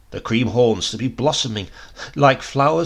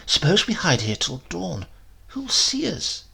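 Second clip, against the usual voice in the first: eager, rising higher at the question; exclaimed; 5 semitones higher than usual. A narrator's reading. Baby proposing to Dritto they stay till dawn, excited. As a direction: blurt out the bold idea. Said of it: "he exclaimed".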